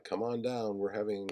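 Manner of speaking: a hint of a TV pitchman selling; mild mock sales pitch; commercial announcer. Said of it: "takes on the voice of a ... commercial announcer".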